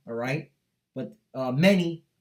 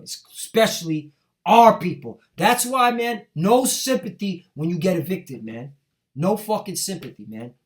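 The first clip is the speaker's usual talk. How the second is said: louder, furious preacher's outburst; angry preaching; 2 semitones higher, 6 dB louder than usual. Real, not acted. Street preacher condemning his own people, loud and furious. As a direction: hammer it at them in anger. Ranting at voters facing eviction.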